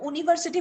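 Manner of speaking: यूनिवर्सिटी starting on a bare "oo"; no y glide at the start of यूनिवर्सिटी; wrong pronunciation. Shown as a demonstration. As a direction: pronounce यूनिवर्सिटी as "ooniversity". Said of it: "बोलते ही नहीं है".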